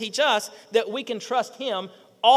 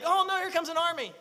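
higher-pitched pretend dismay; mock alarm; 5 semitones higher than usual. Preacher voices a doubter facing an army, mock alarm.

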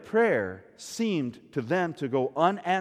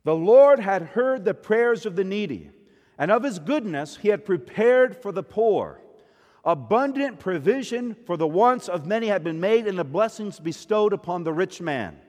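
tag; 2 semitones higher, 3 dB louder than usual. Acted. Reads scripture passage.

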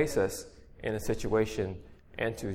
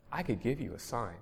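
tender; 8 dB quieter than usual. A narrator's reading. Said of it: "And he tenderly said".

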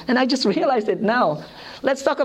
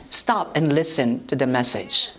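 Lord's rebuke; 7 semitones lower than usual. Retold or imitated. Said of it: "the Lord rebuked me".

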